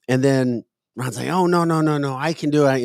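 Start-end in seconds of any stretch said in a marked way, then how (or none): 1.3-2.8 put-on high whiny protesting kid. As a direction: whine like a kid who wants his way. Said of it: "answer him in his whiny voice".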